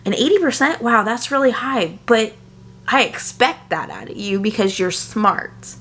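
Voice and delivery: P=A; imitating husband. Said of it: "this is what my husband would say".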